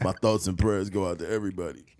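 mock stoner voice, talking with breath held in. Imitating a friend answering sad news while holding smoke: imitating a stoner talking with smoke held in. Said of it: "holding all, everything into your lungs".

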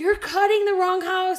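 slow high-pitched yelling.

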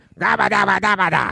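gravelly, rough, high-pitched, froggy, croaking babble. Retelling an audition heard from the waiting room: Brian Doyle Murray gravelly voice. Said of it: "He's like".

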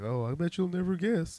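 very girly, high-pitched put-on voice. Recapping a spaceship board meeting scene, the villain answering: girly Frieza voice. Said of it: "in his very girly ass voice".

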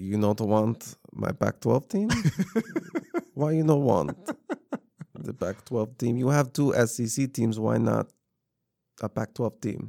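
put-on Russian accent. Doing a bit about a man who starts speaking Russian, in a put-on Russian accent. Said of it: "He just needs a little bit of Russian accent".

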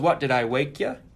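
playful mock joking tone. Retelling a client's phone call to an agent, quoting the client joking. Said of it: "the client jokingly goes".

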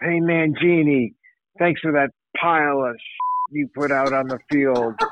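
loud trucker-like yell, tossed out like a heckle. Recalling a truck driver yelling at the speaker in the street: retelling a yell. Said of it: "And the guy yells".

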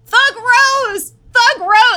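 very high, drawn-out, thrilled excited scream. Retelling an announcer's reaction as the fight ends: imitating an excited scream. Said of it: "He just starts screaming".

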